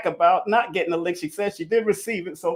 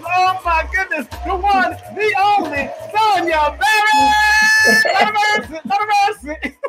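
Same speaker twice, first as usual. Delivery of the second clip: much higher and louder, a stretched shouted name; a host bellowing the guest's name to the crowd; MC hype introduction; 10 semitones higher, 6 dB louder, slower than usual. Real, not acted. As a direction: announce the guest like a stadium MC.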